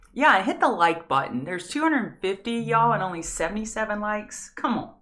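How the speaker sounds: rally the chat to hit like; urging viewers. Real, not acted. Streamer pushing viewers to hit the like button.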